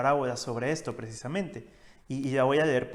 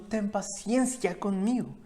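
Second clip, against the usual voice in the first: begging fellow servant; 4 semitones higher than usual. Acted. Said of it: "le rogaba diciendo".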